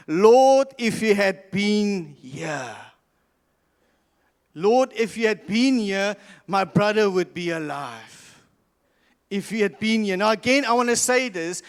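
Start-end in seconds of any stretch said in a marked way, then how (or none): 0.1-10.2 grieving plea. Retold or imitated. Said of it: "she says the following".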